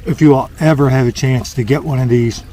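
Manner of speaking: talking through a mouthful of food; words muffled by a mouth full of food. Real, not acted. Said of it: "with my mouth full".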